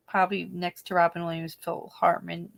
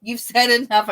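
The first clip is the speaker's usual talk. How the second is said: bossy Barbara parody; 5 semitones higher, 7 dB louder than usual. Retold or imitated. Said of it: "it was the best skit ever".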